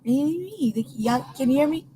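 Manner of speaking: breaking up over a bad line; crackly cordless phone. Real, not acted. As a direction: voice fading in and out on phone. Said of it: "you're fading in and out".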